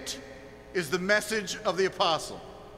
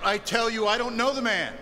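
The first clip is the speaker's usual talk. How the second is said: mildly raised preacher's cry of denial; 2 semitones higher than usual. Acted. Preacher voicing the congregation's denial of Christ, crying out. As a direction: cry out the denial, slightly lifted. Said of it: "You cry out".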